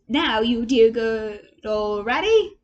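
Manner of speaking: put-on slow, pleading plea to an old friend; imploring Toad. A narrator's reading. Toad begging Ratty to join, slow and imploring. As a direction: coax him slowly, begging. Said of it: "said Toad imploringly".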